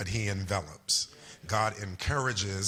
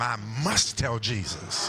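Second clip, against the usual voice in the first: emphatic preacher's declaration; lightly put-on pulpit voice, punching MUST. Shown as a demonstration. Pastor coaching people to tell their neighbour, preacher voice. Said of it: "put your preacher voice on".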